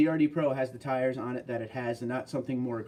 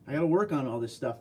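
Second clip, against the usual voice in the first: ordinary delivery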